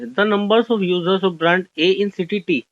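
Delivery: very slow, word-by-word reading of the question. Shown as a demonstration. Teacher reading an exam question to the class, slow and deliberate. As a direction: read it out slowly so students can follow.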